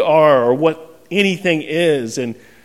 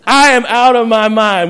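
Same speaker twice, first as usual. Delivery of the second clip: louder, laughing, frantic retelling; 4 semitones higher, 4 dB louder than usual. Retold or imitated. Pastor retelling the birth rush to the congregation, frantic and laughing. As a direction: rush the words, laughing at yourself.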